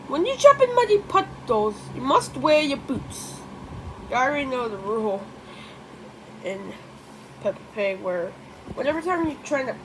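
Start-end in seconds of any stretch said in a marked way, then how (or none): 0.1-3.3 higher-pitched, lightly voiced mother pig; a light hint of a scolding mum; Mommy Pig voice. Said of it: "Mommy Pig would say".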